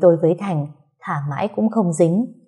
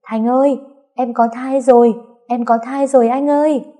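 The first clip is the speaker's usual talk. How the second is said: overjoyed shout down the hill; shouting from the hilltop; 6 semitones higher than usual. A narrator's reading. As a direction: call out joyfully to him far below. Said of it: "đứng trên dốc gào lên".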